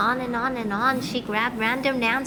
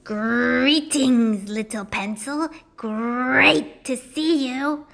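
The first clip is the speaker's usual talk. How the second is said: sweet granny voice; 4 dB louder, much slower than usual. Acted. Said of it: "said Principal Granny".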